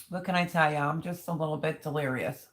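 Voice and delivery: talking while chewing; chewing noisily. Real, not acted. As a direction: mouth full of food. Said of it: "sorry, I'm eating".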